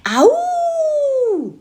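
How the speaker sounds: very high, loud yell coming up from the water; yell after dunking. A narrator's reading. Boy yelling as he whips his head out. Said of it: "whipped it out yelling".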